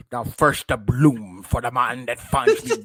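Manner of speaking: slow, lightly voiced sea captain; a hint of a menacing sea captain; Davy Jones. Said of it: "your boy, Davy Jones".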